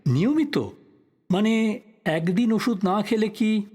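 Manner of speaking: sharp high surprised question. Acted. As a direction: pounce on the word in surprise. Journalist catches key detail.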